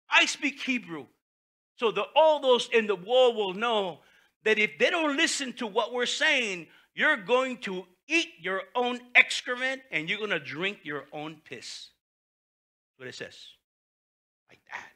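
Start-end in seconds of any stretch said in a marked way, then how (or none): 0.1-11.9 threatening envoy. Retold or imitated. Preacher voices the Rabshakeh's threat.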